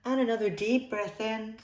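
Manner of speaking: slow, drawn-out words riding on the breath; breathing guidance. Shown as a demonstration. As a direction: stretch each cue to the length of a breath. Leading three deep breaths by example.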